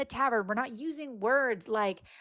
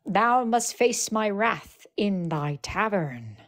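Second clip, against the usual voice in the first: slow grim tavern lord, lightly hammed; playful doom pronouncement; slow mock-doom decree; slower than usual. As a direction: drag out each word as a mock threat. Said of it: "Hold on, thou".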